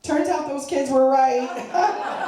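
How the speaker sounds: put-on slow, drawn-out sorry to a child, laughing through it; mock apology. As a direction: break it to her gently, hammed up. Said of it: "I said".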